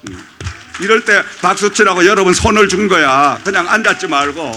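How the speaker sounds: loud, rising preacher's testimony; preacher's testimony at full force; fiery preaching. Acted. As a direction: build to a triumphant climax.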